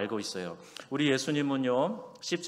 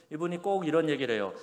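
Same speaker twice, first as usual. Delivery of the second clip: ordinary talk, nothing marked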